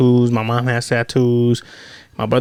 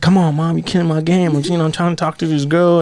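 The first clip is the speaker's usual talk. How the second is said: mildly pleading, pitched up; retold plea to mom, a little higher; protesting teen; 4 semitones higher than usual. Teen pleading with his mom about a girl, mildly protesting.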